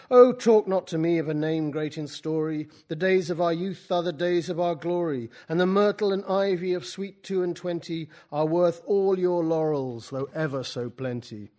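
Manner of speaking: loud voice filling the room; Byron's booming voice. Acted. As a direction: boom it out to draw the listener towards the bar. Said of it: "his voice filling the room".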